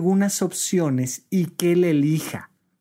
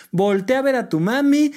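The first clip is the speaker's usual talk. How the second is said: higher coaxing sing-song; coaxing mother; 7 semitones higher than usual. Retold or imitated. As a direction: call the child's eyes to mami. Mother soothing crying child.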